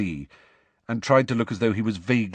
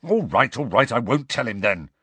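irritable; 3 semitones higher than usual. Acted. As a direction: give in with clear annoyance. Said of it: "said Harry irritably".

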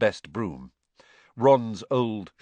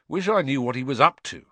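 frowning; 5 semitones higher, 5 dB louder than usual. A narrator's reading.

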